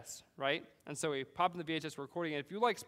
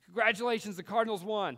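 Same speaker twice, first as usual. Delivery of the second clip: a mild retold shout from across the driveway, higher and louder; neighbor yelling out; 5 semitones higher, 4 dB louder than usual. Neighbor calls the score to a boy, loud and high. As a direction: call out the good news across the yard. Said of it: "my neighbor yells out".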